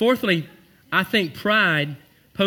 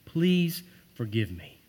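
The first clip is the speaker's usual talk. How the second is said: slow please forgive me; slower than usual. Shown as a demonstration. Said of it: "That's another one".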